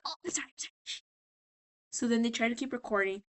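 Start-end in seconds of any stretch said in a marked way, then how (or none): 0.1-1.0 small, soft, higher voice; mock sheepish apology. Charlie to the angry director, mock sheepish. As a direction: shrink back while apologizing.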